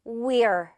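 "we're" as one joined syllable; contracted we're. Shown as a demonstration. Teacher models the shortened form for learners, contracted. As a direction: slide we straight into the r for "we're". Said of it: "줄여서".

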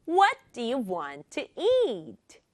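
three slow beats on "What", "want" and "eat"; stress on WHAT, WANT, EAT. Shown as a demonstration. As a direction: punch "What", "want", "eat", glide over the rest. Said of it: "한 번만 더".

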